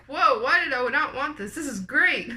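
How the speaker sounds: loud, high, delighted whoa; super happy. Retold or imitated. New mom recalling the epidural kicking in, delighted and loud. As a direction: gush with sudden relief from the pain. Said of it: "I was super happy".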